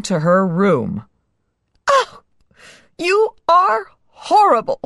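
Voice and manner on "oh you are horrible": high disgusted princess cry. Acted. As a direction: recoil from the frog with disgust. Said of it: "she cried".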